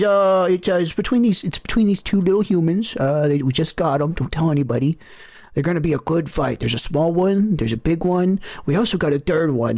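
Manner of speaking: a bookie leaning in to share gossip; chatty bookie. Acted. Bookie talks odds with Shaq, quick and chatty.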